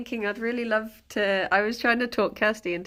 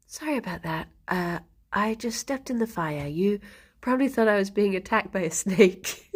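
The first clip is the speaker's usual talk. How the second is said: calm impression; 2 semitones lower than usual. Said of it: "saying things really calmly".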